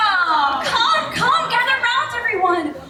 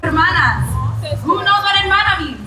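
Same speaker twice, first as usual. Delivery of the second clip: loud street performer hustle; 2 semitones lower, 3 dB louder than usual. Acted. Host quizzing the crowd loudly.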